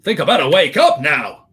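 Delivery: a famous singer's style Welsh croon; lightly crooned Welsh accent. Pretend. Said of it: "Your Welsh accent and singer impression".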